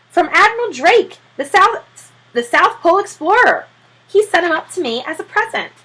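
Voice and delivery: high, loud proud voice; high, proud Mr Popper; eager owner. Acted. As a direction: boast about the gift.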